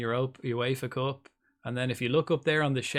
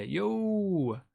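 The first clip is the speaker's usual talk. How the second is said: synthetic TTS voice; 7 semitones higher than usual. Real, not acted. TTS voice greeting.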